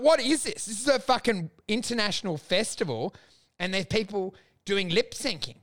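mock outrage at the festival; incredulous rant. Retelling the festival to his co-host, indignant disbelief.

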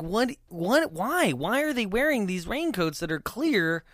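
high-pitched, incredulous questioning; baffled disbelief. Retold or imitated. Viewer puzzling over the clear raincoats, baffled disbelief. Acts out own baffled reaction.

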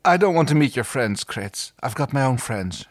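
lightly seductive refusal; seductive coo. Acted. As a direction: coo it with a touch of flirtation. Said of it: "she seductively cooed".

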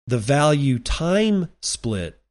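slow phrase with "time" stretched and stressed. Real, not acted. Podcaster making sure listeners catch the new term, heavy stress on "time". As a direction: lean hard on the word "time", drawn out slowly. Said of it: "I'm emphasizing the word time".

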